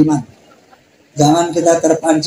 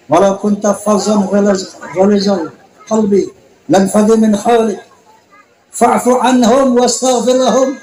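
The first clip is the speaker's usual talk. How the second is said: melodic chanted Arabic recitation; preacher chanting the verse to his congregation; Quran recitation. Acted. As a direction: intone the verse like tilawah.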